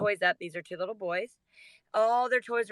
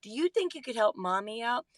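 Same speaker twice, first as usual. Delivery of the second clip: sweet mommy voice. Retold or imitated. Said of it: "I said".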